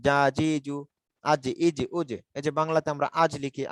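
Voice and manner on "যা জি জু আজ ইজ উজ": যা, জি, জু held long, আজ, ইজ, উজ closed on firm j; j drill. Shown as a demonstration. Teacher showing exactly how jim sounds, j drill. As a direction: chant in even, separate syllables. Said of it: "ঠিক এরকম উচ্চারণ হয়".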